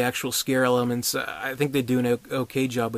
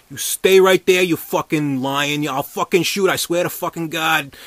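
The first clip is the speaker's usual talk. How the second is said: mock cop threat; 4 semitones higher, 7 dB louder than usual. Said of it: "he's just like".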